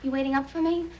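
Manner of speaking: breathless after hurrying in; out of breath. Real, not acted. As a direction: talk while catching your breath. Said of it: "I'm out of breath anyway".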